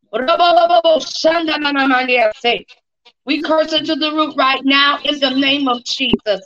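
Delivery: speaking in tongues. Real, not acted.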